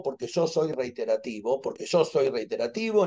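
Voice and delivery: repetición cada vez más baja, como eco de Zoom; imitando un eco. Pretend. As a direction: haz de eco de tu propia frase. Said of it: "ni es el eco de Zoom". (eco que se apaga suavemente)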